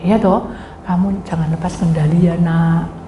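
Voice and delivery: ordinary delivery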